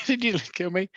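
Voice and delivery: high-pitched teasing echo of the line; mocking echo. Echoing his mate's line back in a high teasing voice. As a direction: toss the line back in a squeaky mock voice.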